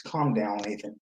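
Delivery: put-on slow, soft calming to an old man. Soothing a cranky old gym guy, slow and soft. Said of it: "I'm like".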